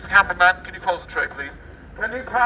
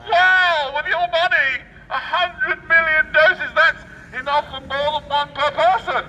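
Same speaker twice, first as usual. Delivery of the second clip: sarcastic wow; 4 semitones higher than usual. Acted. Sarcastic outrage at purchase.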